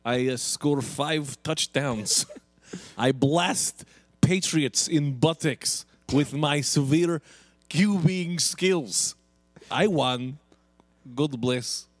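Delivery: put-on Russian accent. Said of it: "you're Vladimir Putin".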